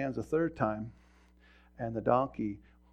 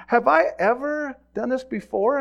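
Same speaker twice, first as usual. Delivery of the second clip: remonstrating donkey; 10 semitones higher, 5 dB louder than usual. Acted. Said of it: "the donkey talks back again".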